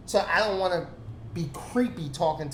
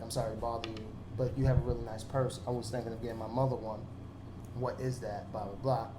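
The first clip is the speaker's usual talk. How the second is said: mock polite approach; 6 semitones lower, 9 dB quieter than usual. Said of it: "And I'd be like".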